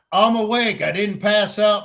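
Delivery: high-pitched mock indignation; acted-out exasperated protest; retold protest. Protests he had not fainted.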